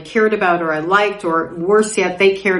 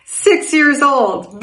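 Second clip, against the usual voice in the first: laughing; 6 semitones higher than usual. Real, not acted. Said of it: "yeah, I'm saying it".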